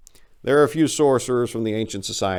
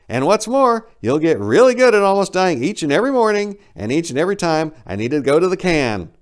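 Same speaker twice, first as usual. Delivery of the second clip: high, loud shout; 9 semitones higher, 7 dB louder than usual. Acted. Narrator shouting at the big bird, loud. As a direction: shout the retort back. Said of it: "I shouted".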